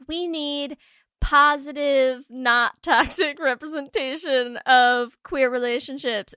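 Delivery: slow, deliberate earnest demand; earnest plea. Acted. Host voicing viewers asking for representation, earnest plea. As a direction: spell the plea out slowly, word by word.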